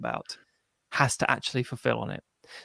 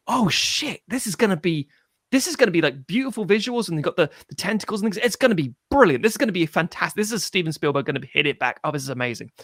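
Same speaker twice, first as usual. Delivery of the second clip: excited anticipation; 4 semitones higher than usual. Retold or imitated.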